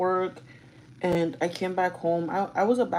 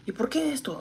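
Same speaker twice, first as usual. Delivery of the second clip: an unvoiced whisper, raised in pitch; whispered complaint; 7 semitones higher, 4 dB quieter than usual. Daughter to mom about her things, whispered. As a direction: hiss the question at mom under her breath.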